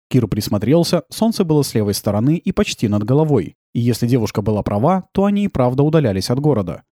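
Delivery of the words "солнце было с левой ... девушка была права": usual speaking voice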